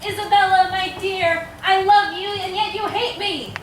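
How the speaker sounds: a touch of tragic melodrama; melodramatic narration. Acted. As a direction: declaim it like a tragedy. Narrating a tragic dying speech.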